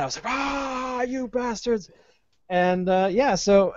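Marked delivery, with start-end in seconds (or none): 0.3-1.9 high, hammed-up cry of outrage; playfully exaggerated fury at the phone company; mock angry outburst. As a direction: fling it like a cartoon tantrum. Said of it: "I was so mad".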